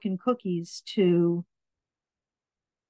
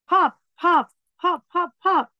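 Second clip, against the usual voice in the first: playful popping; 8 semitones higher, 4 dB louder than usual. Acted.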